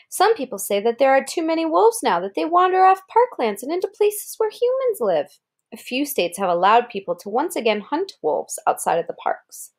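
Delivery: even picture-book read-aloud; reading to a child. Acted. Parent reading a wolf book to Kara, storybook voice. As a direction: read it clearly to a small listener.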